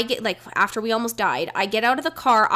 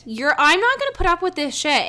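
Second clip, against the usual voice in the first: retold rebuke; 7 semitones higher than usual. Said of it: "And Nicole was like".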